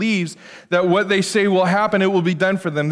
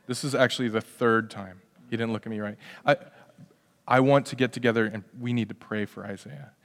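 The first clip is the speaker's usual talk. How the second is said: low, casual confiding voice; mock concerned gossip; 6 semitones lower than usual. Hurt churchgoer asking Curtis to pray about Isaiah, mock confiding. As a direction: lightly play a hurt churchgoer recruiting allies.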